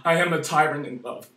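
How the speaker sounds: quiet pleading aside; hushed. Real, not acted. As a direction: drop to a hush after the rage. Sudden hush after screaming.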